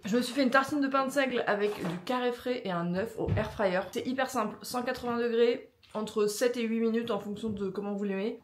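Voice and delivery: talking with a mouth full; chewing while talking. Real, not acted. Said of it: "je parle la bouche pleine là".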